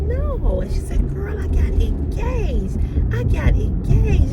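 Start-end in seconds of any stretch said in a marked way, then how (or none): 0.0-0.6 a high, loud squeal of no; excited high no. Retold or imitated. Answering her excited friend on the phone, high excited no. 1.1-4.3 high, loud, slow excited squeal; excited screaming. Retold or imitated. Friend calling to announce her engagement, high excited squeal. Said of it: "we were screaming on the phone".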